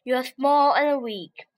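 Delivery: slow scornful lion; lion mocking small animals, slow. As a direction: sneer it slowly like a big cat. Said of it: "said lion".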